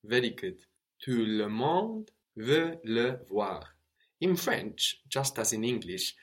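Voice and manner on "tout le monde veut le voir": slow model sentence. Shown as a demonstration. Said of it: "repeat after student".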